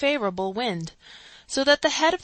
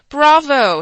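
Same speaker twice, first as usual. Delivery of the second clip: louder, higher bravo; crying bravo; 6 semitones higher, 12 dB louder than usual. A narrator's reading. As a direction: cheer him on loudly. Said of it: "he cried".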